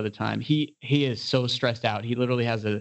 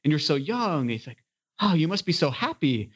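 higher-pitched wide-eyed admiration, retold; mock-awed, raised voice; admiring tow truck driver; 4 semitones higher than usual. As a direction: gush like an impressed stranger. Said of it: "It's this really nice guy".

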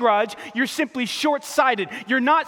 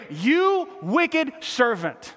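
very slow, stretched verdict; preacher repeating the feared rebuke; dreaded verdict; 4 semitones higher, much slower than usual. Acted. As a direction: drag out each word as a warning. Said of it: "I don't wanna hear".

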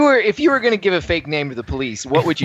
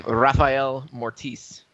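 dramatic name reveal; much slower than usual. Shown as a demonstration. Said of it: "a pen name that I'd use".

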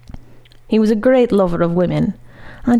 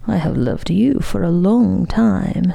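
melting tone. Acted. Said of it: "in a melting tone".

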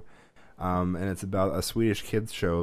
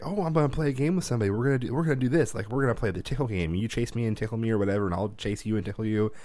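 put-on higher, fast, eager little boy; dad mimicking his son's excited game pitch; excited kid voice; 4 semitones higher than usual. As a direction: pitch it like a hyped-up kid wanting to play. Imitating kid Ezra's game pitch.

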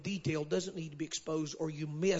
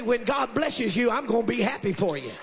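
model declaration; 4 semitones higher, 5 dB louder than usual. Shown as a demonstration. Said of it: "look at somebody and say".

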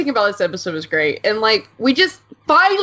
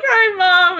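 tag; 10 semitones higher, 3 dB louder than usual. Retold or imitated. Voicing Zarya meeting her mother.

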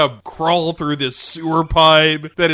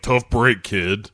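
put-on gruff old man; 7 semitones lower, slower than usual. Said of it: "He's like".

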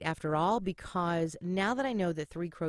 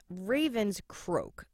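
slow croaky demo; 3 semitones higher, much slower than usual. Shown as a demonstration. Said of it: "the sound is much deeper and more guttural".

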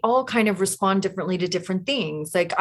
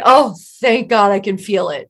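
louder, laughing through the words; laughing mock relief; 6 dB louder than usual. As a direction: giggle it out as a tipsy relief. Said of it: "you're going".

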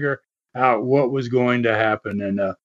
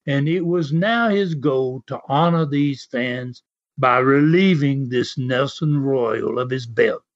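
a touch of imitated English accent. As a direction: retell it in an amateur English accent. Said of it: "try to do a little English accent".

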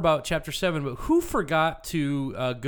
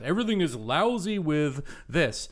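mocking quote; 2 semitones higher than usual. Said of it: "I think we've heard that".

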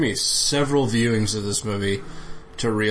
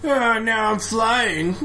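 goofy character voice; 11 semitones higher, much slower than usual. Pretend. Voicing the flying character.

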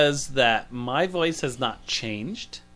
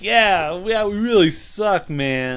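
Tommy Chong voice; 6 semitones higher, slower than usual. Retold or imitated. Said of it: "kinda doing Tommy Chong".

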